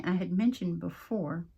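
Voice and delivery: words come out growling; growly voice. Real, not acted. Vlogger to viewers, a growly rasp. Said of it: "I sound like I'm growling".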